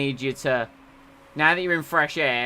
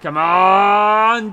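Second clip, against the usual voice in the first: excited cheer; 4 semitones higher, 10 dB louder than usual. Real, not acted. Cheering driver on.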